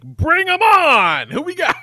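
high, loud, stretched-out mock enthusiasm; hammed-up eager cheer. Groom learns guests bring money, hammed-up eager shout. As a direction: holler a sudden welcome, drawn out and high.

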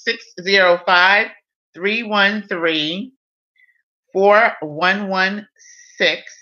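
each digit said slowly and clearly; slow dictation. Real, not acted. Dictating phone number again.

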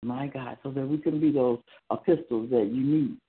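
earnest pastoral prayer, steady and devout; closing prayer. Acted. Pastor praying over the people after the word, devout prayer. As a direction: pray over the church, thankful and sincere.

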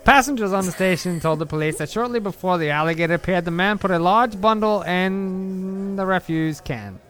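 put-on old-time New York newsreader accent. Reading the clip to his friend in a New York accent. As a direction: read it like an old New York radio announcer. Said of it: "That is my New York City, Boston, Massachusetts accent".

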